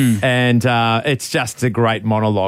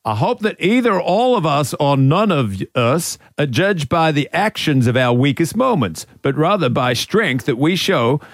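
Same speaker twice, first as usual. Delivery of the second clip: struggling attempt at Ted's American accent; American coach accent, barely held; Ted Lasso accent; 2 semitones higher than usual. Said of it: "do the accent at the same time".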